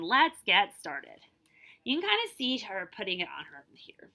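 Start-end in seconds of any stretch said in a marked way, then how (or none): 0.0-1.2 complaining. Acted. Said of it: "she complained".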